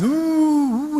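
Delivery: a high mock dog whine; playful dog cry; imitated dog howl. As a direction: howl like a hurt dog, lightly. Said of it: "this dog was crying at the top of his voice".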